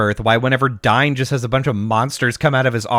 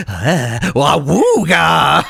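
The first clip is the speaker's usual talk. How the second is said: mock goofy yell; much slower than usual. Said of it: "not like".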